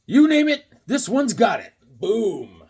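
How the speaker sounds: high, loud and proud about the comic; excited boast. Real, not acted. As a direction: show off your best find. Showing off a prized comic.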